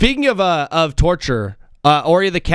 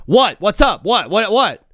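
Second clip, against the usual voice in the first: mock yelling; 5 semitones higher, 3 dB louder, slower than usual. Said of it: "I'm just screaming at him".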